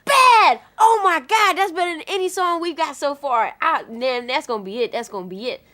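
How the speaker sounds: high, loud excited yelling; thrilled, shouting with delight. Retold or imitated. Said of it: "she was like".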